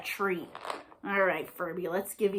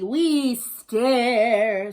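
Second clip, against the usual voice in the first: little zombies; 6 dB louder than usual. Acted. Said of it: "said the three".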